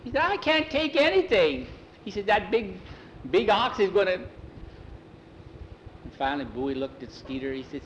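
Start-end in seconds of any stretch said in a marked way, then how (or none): 0.2-4.2 high, loud, frantic wail; panicked protest. A narrator's reading.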